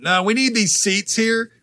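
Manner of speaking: a hint of a mom claiming seats. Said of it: "like a mom going".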